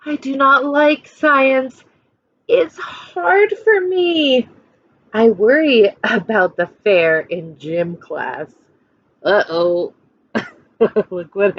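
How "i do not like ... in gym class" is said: put-on reading a picture book to children; lively storytime voice for a class; expressive read-aloud for kids; story narration. A narrator's reading.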